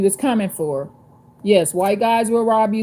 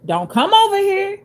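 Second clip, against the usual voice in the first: high, commanding warning; authoritative voice; 10 semitones higher than usual. Retold or imitated. Telling viewers how she warned off the thief, authoritative. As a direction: lay down the law, no room for argument. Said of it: "I clearly said in an authoritative voice".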